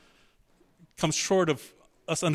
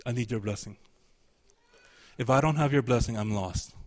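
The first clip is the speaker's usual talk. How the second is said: begging plea; 4 semitones lower than usual. Shown as a demonstration. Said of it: "That's the tone".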